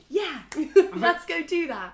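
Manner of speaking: egging a mate on with a laugh; mock eager yes to Gabriel; eager yes-man. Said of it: "it will be like".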